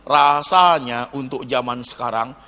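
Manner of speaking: lightly voiced casual young caller; low, offhand young man excusing himself; young man on the phone. Young man phoning the pastor, a hint of casual excuse. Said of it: "anak muda S M S saya, telepon saya".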